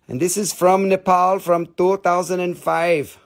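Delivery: lightly hammed foreign accent with broken English; put-on foreign accent. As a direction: play a foreign dealer with a thick-tongued accent. Foreign dealer act returns.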